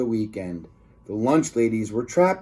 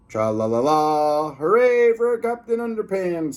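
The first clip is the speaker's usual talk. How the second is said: higher cheerful hooray; victory cheer; 3 semitones higher than usual. Acted. Reader cheering the hero's win, higher hooray. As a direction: cheer the hero on.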